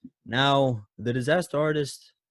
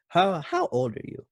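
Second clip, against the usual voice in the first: high mom voice; 9 semitones higher than usual. Retold or imitated. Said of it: "his mom's just like".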